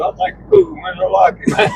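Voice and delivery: imitating him in a high squeaky voice; squeaky mock voice. Mimicking the cellmate who followed him around, in a high squeaky voice. Retelling a pushy cellmate's words.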